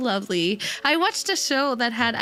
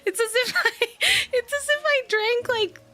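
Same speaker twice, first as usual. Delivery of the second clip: hyperactive; 8 semitones higher than usual. Real, not acted. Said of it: "I am so hyperactive".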